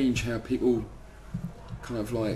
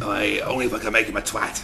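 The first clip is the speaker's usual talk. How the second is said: laughing devil reply; 4 dB louder than usual. Pretend. Voices the devil's answer, laughing.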